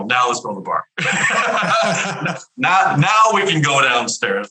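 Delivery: gleeful, laughing through the words; laughing triumph. Real, not acted. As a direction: crow it out between laughs. Triumphant quote breaking into laughter.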